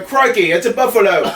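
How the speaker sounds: put-on light Australian accent on Crikey, it's a buffalo; mock Australian accent. Twelve-year-old son jokes around the park, hammed-up Australian accent. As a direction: play the kid mimicking an Aussie ranger. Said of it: "my twelve-year-old's running around going".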